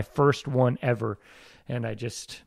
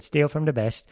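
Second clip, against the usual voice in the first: put-on light London accent on a short quote; a hint of a British film star; Michael Caine; 3 semitones higher than usual. Actor quoting a famous mentor's advice, lightly voiced impression. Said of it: "that was my Michael Caine impression".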